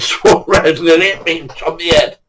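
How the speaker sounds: breaking into laughter mid-quote; can't keep a straight face; giggling through the bloke's excuse; laughing. Real, not acted.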